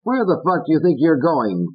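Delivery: high, rude dummy voice; Fats. Acted. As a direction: snap at the postman. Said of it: "Fats said".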